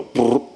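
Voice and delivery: quick rolled brrr of test fire; trilled-lip gun noise; imitated machine-gun burst. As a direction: mimic a short burst of gunfire. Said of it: "squeeze off a few rounds with your machine guns".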